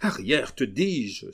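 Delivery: loud, rising command to back off; outcry. Acted. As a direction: shove her away with your voice. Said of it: "s'écria Camille". (cri violent pour la repousser)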